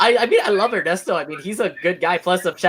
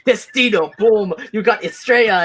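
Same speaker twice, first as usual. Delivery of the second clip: Ernesto Estrella quote; 3 semitones higher, slower than usual. Retold or imitated. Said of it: "where Ernesto is just saying".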